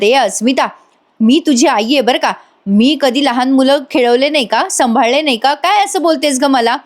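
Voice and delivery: a mild mock of an offended mother; irked mother. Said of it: "कल्पनाताई चिडतात आणि म्हणतात". (चिडलेल्या आईचा सौम्य नक्कल केलेला सूर)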